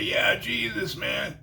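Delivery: whispered, barely getting it out; winded and terrified, a whisper; breathless fear. Retold or imitated. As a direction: try to speak with no breath. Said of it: "I was trying to say".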